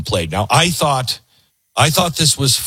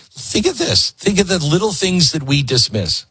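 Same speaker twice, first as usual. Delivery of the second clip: urgent appeal; 4 semitones higher than usual. Acted. Host urging viewers to think.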